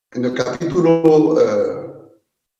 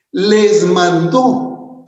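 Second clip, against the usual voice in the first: "Les mandó" drawn out very slowly, words stretched; stress on mucho; 3 semitones higher, much slower than usual. Shown as a demonstration. Preacher stressing the command to the parents, slow and emphatic. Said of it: "Y yo quiero enfatizar eso".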